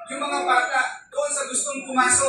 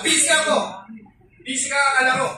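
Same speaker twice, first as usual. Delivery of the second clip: lightly voiced dismissive parent, a bit louder; mock busy parent; 3 dB louder, faster than usual. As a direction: brush off the kids like a distracted dad. Mimicking a busy parent brushing off children.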